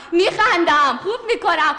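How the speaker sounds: words pushed out through laughs; laughing on command; forced laughter. Pretend. Actor told to laugh, forcing laughs through words. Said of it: "بخند".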